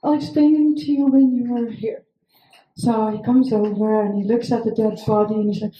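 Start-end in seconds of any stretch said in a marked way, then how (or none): 0.0-2.0 nervous. Retold or imitated. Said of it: "I'm like".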